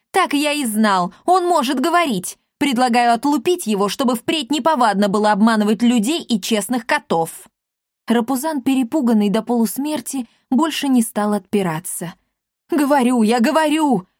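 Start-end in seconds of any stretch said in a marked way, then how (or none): 0.1-7.5 high, eager threatening voice; gleeful threat to thrash; gloating excited. Acted. Akatsiy eagerly proposes thrashing the cat, high and gloating. 12.7-14.1 high, loud hurried protest; hasty pleading. A narrator's reading. Terrified cat hastily admits he talks, high and loud. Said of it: "поспешно сказал он".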